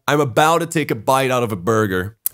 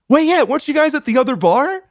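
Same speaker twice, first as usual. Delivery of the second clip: imitated excited recognition; 12 semitones higher than usual. Voicing excited drunk woman in story.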